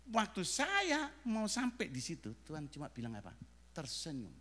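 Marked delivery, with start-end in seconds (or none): 3.7-4.3 tag. Retold or imitated. Voices God's quiet answer.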